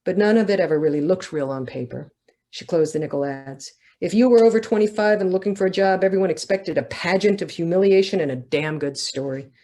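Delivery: measured reading voice for a novel; steady literary reading; story narration. A narrator's reading. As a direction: read it as the author to an audience. Author reads her novel aloud.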